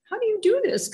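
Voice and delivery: high, loud, astonished question; amazed question. Retold or imitated. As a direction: blurt it out in amazement. Retelling her amazed reaction to healer.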